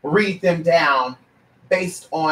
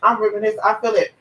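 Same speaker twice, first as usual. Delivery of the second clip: put-on gushing girlfriend chat; 4 semitones higher than usual. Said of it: "we chit-chat".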